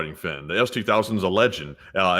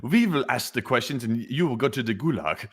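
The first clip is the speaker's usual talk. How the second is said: put-on German accent. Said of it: "they sound German".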